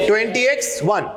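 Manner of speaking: "ट्वेंटी एक्स वन" repeated as English twenty, X, one; repeated year read-out. Shown as a demonstration. Teacher drilling the class on the year, "ट्वेंटी एक्स वन" in English. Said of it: "बोले फिर से".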